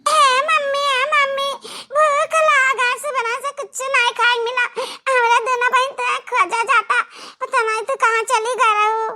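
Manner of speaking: put-on a hungry little girl whining to her mother; child's voice. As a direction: kid begging mummy. Child character calling mother.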